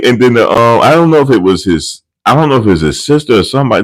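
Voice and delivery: ordinary talk, nothing marked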